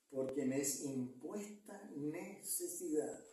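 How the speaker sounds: slow, weighted reading, drawing out "impuesta necesidad"; emphatic scripture reading. Shown as a demonstration. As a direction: spell out "impuesta necesidad" slowly and deliberately. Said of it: "no lo leo tan, tan normal".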